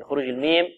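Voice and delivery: meem closed on both lips; sustained nasal m; clear meem. Shown as a demonstration. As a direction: close the lips fully on الميم. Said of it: "من الشفتين".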